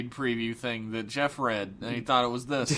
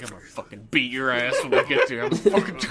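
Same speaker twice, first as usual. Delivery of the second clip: under the breath; 3 semitones lower, 4 dB louder, faster than usual. Retold or imitated. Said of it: "talking under his breath the whole way".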